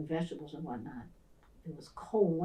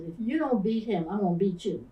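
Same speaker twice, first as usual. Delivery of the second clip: stern threat; 2 semitones higher, 5 dB louder than usual. Retold or imitated. Teacher threatening the bully.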